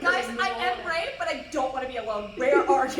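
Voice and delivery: scared call. Acted. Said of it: "She screams loudly".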